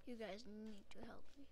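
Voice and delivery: unvoiced whispered plea. Real, not acted. Gamer whispering to viewers while hiding from mobs, hushed.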